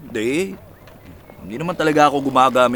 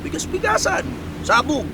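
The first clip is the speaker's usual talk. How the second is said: playful explosion mimicry; 10 semitones higher than usual.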